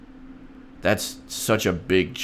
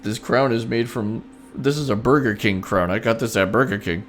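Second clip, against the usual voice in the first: mock crying plea; 2 semitones higher than usual. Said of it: "I can cry on your shoulder and say".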